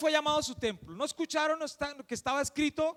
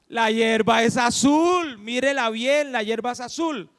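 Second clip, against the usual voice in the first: insistent donkey; 7 dB louder than usual. Acted. Donkey correcting the tiger in a fable, insistent.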